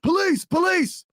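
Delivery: high slow police call; drawn-out police yell; grave federal agent. Retold or imitated. Police yelling.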